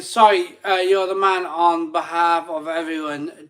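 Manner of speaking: reading the message aloud. Retold or imitated. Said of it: "super chat saying".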